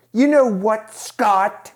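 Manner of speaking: high, loud put-on voice; mock voice to Scott. Teasing her boyfriend's brother Scott in a high silly voice. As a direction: tease him in a silly voice. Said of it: "I wanna go".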